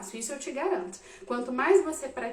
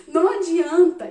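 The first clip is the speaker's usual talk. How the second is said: laughing; 4 semitones higher, 8 dB louder than usual. Real, not acted. Laughing at chaotic kids scene.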